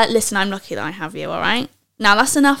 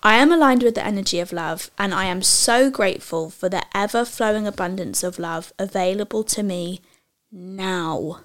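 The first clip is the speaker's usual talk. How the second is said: affirmation read; 2 semitones lower than usual. Shown as a demonstration. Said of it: "let me just say it".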